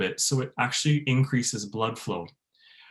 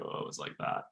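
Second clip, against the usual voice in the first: fading into fry; 14 dB quieter than usual. Shown as a demonstration. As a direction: voice drops to creak and breath. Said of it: "it kinda goes off like this".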